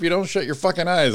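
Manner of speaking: high, loud fed-up complaint; mock exasperated yell. Retelling his reply to his partner at bedtime, mock exasperated yell. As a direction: blow up like someone kept awake.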